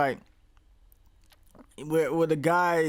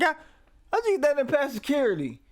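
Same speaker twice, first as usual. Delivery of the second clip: imitating Chuck; 9 semitones higher, faster than usual. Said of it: "He's like".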